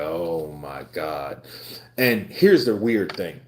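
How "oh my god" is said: inner panic. Retold or imitated. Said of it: "I was like".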